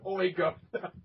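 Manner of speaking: tossed-off Cockney quote; light Cockney aside; mock Cockney. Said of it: "We both go with".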